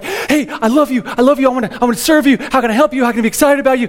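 puppyish, adoring dog voice; eager dog voice. Retold or imitated. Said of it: "It's like".

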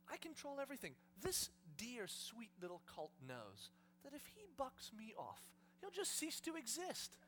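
soft, slowing, quietly menacing; Jesus whispering. Acted. Jesus explaining why the colt obeys, soft and deliberate. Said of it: "Do you hear Jesus whispering?".

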